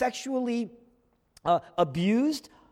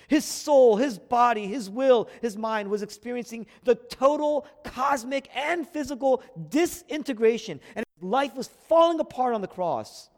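impassioned preaching; 5 semitones higher, 5 dB louder than usual. Real, not acted. Preaching climax on disintegration.

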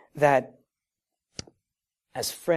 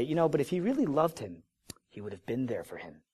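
softening, falling mild reproach; doubting onlookers; 6 dB quieter than usual. Acted. Other onlookers question Jesus's love, quiet falling reproach.

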